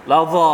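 ลาซอ with a heavy emphatic ซอ; full-mouthed sad. Shown as a demonstration. Teacher showing students how to say ลาซอ properly. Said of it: "ตัวซอดเนี่ยต้องเต็มปาก".

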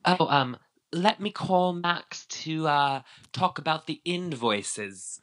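high, drawn-out mock accent, slipping toward Irish; Lisa Vanderpump. Host mimicking Lisa calling Max about invoices, botched Irish-sounding accent. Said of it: "I don't know why she's, like, Irish now".

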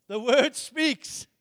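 The word speaks, drawn out slowly word by word; slow it right down to land it; deliberate slow emphasis; slow emphatic. Shown as a demonstration. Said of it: "Let me say it like this".

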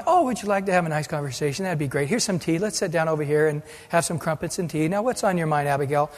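soft, fast, prissy tea-party politeness; sweetly hammed-up host offering tea; mock polite. An imagined David mockingly offering Abigail tea, soft and prim. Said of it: "don't picture David stopping, going".

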